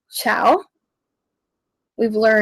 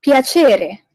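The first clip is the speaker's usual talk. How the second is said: PIACERE exaggerated, stress on the middle, falling away; emphasized Italian word; 3 semitones higher, 3 dB louder than usual. Shown as a demonstration. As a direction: punch "piacere" as a model for learners. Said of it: "Always emphasize the words".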